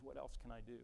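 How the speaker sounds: soft, low, humble question; quiet resignation. Acted. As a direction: let it drop to a quiet surrender. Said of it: "it is often that quiet thing".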